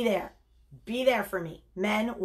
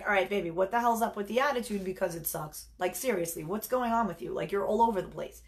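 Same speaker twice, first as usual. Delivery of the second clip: critical snap; faster than usual. Retold or imitated. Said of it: "type A girl, I'm like".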